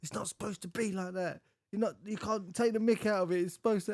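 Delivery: imitating upset sister. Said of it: "She's like".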